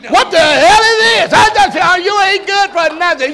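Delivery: high, loud acted tirade; outraged shouting. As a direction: shout a scolding at someone worthless. Acting out pastor's outraged scolding.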